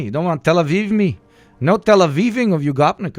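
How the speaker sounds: hammed-up loud objection; loud mock protest. Mock outrage continues.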